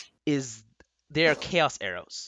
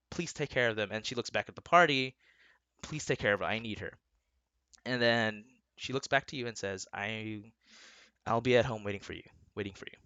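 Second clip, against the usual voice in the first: tender farewell; 4 semitones lower, 5 dB quieter, faster than usual. Acted. DM voices wife's farewell.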